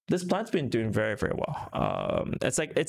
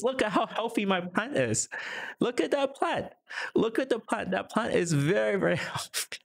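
high-pitched, playful gushing over a plant; playful showing off; 9 semitones higher than usual. Pretend. Streamer showing viewers the office plant, high-pitched playful boasting. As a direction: squeal it proudly, far above your usual pitch.

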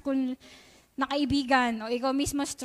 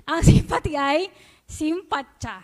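chuckling through the words, slowed; amused laugh breaking into the line; 3 dB louder than usual. Real, not acted. Preacher to youth, amused at the simple Tagalog word, laughing.

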